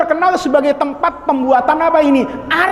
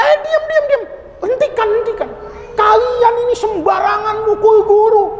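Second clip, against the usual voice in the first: a master shouting the mob down; commanding shout; 10 semitones higher than usual. Acted. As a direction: cut through the crowd and halt the beating. Master stops villagers beating Rumi.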